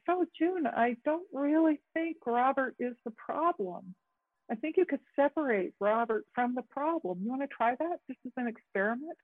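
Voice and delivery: raising pitch to coach a client; demo to client. Shown as a demonstration. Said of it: "I might say".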